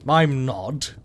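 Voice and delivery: tight, through clenched teeth; gritted teeth. Acted. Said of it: "I said through gritted teeth".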